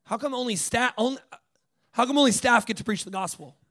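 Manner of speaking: mildly indignant, halting complaint; mad student. Retold or imitated. Student confronts the leader over who preaches, mock mad. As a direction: retell a student's miffed protest, lightly acted. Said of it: "He's just mad".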